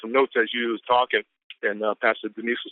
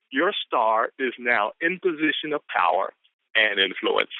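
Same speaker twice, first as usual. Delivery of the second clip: hyped quote reading; 4 semitones higher, slower than usual. Real, not acted.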